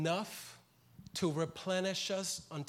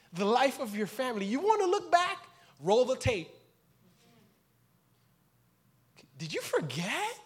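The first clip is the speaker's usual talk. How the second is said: higher and louder, building fervor; impassioned preaching; 4 semitones higher, 4 dB louder than usual. Acted. Preacher voicing the Lord reminding him, building loud. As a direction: preach it with rising passion.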